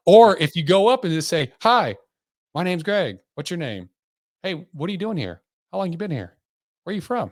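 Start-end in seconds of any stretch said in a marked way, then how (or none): 1.6-7.3 eager friendly opener. Pretend. Acted friendly opener at a bar.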